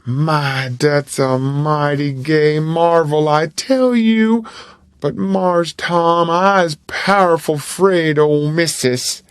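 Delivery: lightly voiced boy, slow and wavering; weakening but still afraid; a hint of a boy giving in; tempted Jim.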